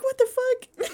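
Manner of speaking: mock outrage through laughter; laughing outrage. Anthony protesting having to take the trash, laughing. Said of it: "And Anthony's like".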